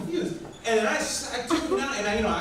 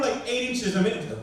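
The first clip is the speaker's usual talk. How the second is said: ordinary talk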